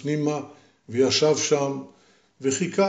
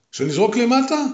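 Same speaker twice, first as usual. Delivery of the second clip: calling down; 9 semitones higher, 4 dB louder than usual. Acted. Voice calls from chimney.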